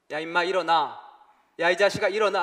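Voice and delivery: loud scolding shout; yelling at brother. Retold or imitated. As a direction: bark him up off the floor. Brother yelling at Jinsu on the floor.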